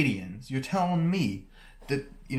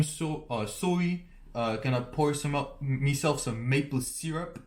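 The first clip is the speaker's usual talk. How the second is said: halting Canadian caricature, slightly raised; mock Canadian accent. Describing the unlikely Canadian match, mock Canadian accent. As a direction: play a stereotyped polite Canadian.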